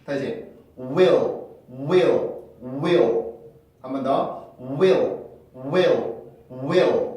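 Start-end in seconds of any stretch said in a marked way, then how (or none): 0.8-3.3 "will"을 혀가 내려갔다 올라가는 L로; "will"의 i와 L 사이에 '어' 같은 소리가 끼게. Shown as a demonstration. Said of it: "이렇게 소리가 만들어집니다". 4.6-7.1 "will"을 혀가 내려갔다 올라가는 L로; "will"의 i와 L 사이에 '어' 같은 소리가 끼게. Shown as a demonstration. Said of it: "이렇게 소리가 만들어집니다".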